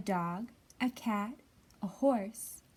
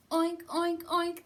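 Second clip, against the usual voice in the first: high, loud pig oinks; hammed-up piglet shout; 6 semitones higher, 5 dB louder than usual. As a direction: squeal it like an angry pig. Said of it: "that pig did shout".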